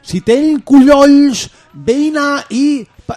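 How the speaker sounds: squeaky mock altar-boy in Catalan; mock Catalan rustic. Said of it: "decía el monago". (monago catalán imitado, agudo y lento)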